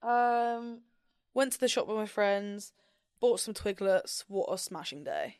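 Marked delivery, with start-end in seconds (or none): 1.3-5.3 British accent. Shown as a demonstration.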